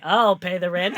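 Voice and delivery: loud, bold hero declaration; heroic rescuer. Pretend. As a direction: proclaim like a cartoon hero. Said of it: "do it as a bow tie and say".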